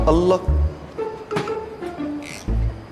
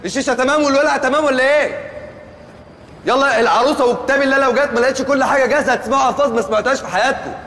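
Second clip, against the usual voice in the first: bossy excitement; 5 semitones higher than usual. Acted. Planner bossing the wedding workers.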